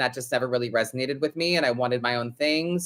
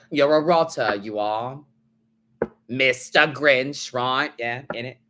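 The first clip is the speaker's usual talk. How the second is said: put-on British accent; 3 semitones lower than usual. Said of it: "the bad British accent".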